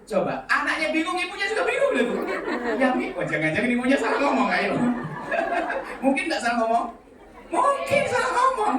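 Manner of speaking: laughing through the words; high laughing delivery. Real, not acted. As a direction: chuckle while telling it.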